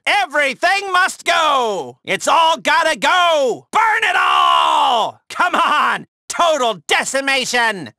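slow, drawn-out shouting; rallying demolition shout; shouted orders. Acted. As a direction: yell it so everything burns. Ordering the base destroyed.

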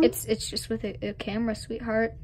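quiet, low explanation; hushed patient reply to a confused kid; soft and patient. Acted. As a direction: gently spell it out. Explaining a camera to an Amish kid.

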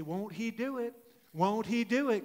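a hint of imitated Texan twang; Maddie's Texan accent. Preacher repeating a young woman's saying, light Texan accent. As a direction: lightly mimic a Texan catchphrase. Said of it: "her phrase in her Texan accent".

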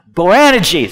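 Boanerges with a loud, stressed middle syllable; emphatic syllable stress. Shown as a demonstration. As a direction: punch the AN in Boanerges. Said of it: "the emphasis on the right syllable".

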